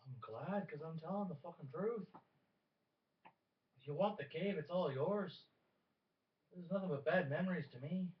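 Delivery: loud, high, bitter outburst; angry shout. Acted. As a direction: throw the cave back at them. NPC snaps back, defending his truth.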